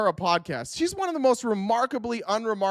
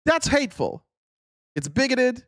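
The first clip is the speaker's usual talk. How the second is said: mocking quote; 5 semitones higher than usual. Mocking Katie Miller's complaint.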